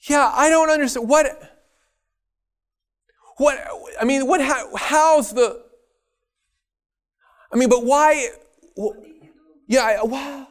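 high, stammering confusion; bewildered angel. Acted. Confused angel in the back asking God about Lucifer, high and halting. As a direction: grope for words, utterly baffled.

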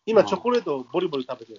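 talking while crunching chocolate; words round a bite of chocolate; chewing chocolate. Real, not acted.

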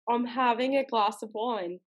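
amateur British, "glass" as glahss; imitated British accent. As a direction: copy his British, long AH in "glass". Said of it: "transfer back to your homeland".

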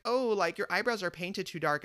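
high-pitched mock of a critic. Head of Disney Look faulting his eyebrows, mock critical. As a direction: imitate a critic, starting high on the "oh". Retold critic voiced in story.

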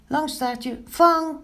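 high call rising to a shout. A narrator's reading. Pinkeltje tosses Langstaartje a pancake, high loud shout. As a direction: shout for the catch. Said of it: "riep Pinkeltje".

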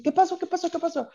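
high-pitched imitation of sudden waking; startled awake. Husband waking to his crying wife, imitated as startled. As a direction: repeat it like a confused, just-woken sleeper.

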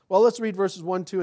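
usual speaking voice

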